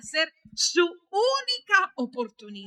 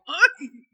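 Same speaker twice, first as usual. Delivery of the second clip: short raised "ay"; mock startling yell; 6 dB louder than usual. Shown as a demonstration. Preacher showing a yell that stops people, mock cry. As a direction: give a quick demo shout. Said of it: "un grito".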